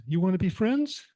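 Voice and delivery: gentle invitation to friendship; the kitten asks the calmed cat to be friends. Acted. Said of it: "The little kitten says".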